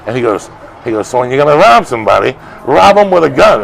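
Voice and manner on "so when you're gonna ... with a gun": loud, high-pitched movie quote, building on the second line; retold outburst. Retelling the film's dinner-table line, loud retold outburst. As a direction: punch it out like an irate film tough guy. Acting out angry film character's line.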